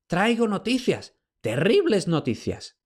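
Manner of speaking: high, slow, gasping report; out of breath with dreadful news; panting old slave. A narrator's reading. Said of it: "jadeó el esclavo".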